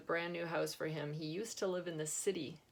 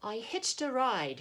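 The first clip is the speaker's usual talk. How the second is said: put-on slow, gentle English-accented old man; a soft English accent, unhurried; 6 semitones higher, 6 dB louder, slower than usual. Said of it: "he said in a soft English accent".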